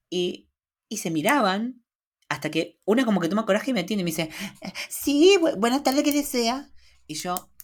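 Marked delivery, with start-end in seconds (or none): 4.9-6.7 put-on high, hesitant shop girl voice; lightly voiced timid cashier. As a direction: play the nervous server working up courage.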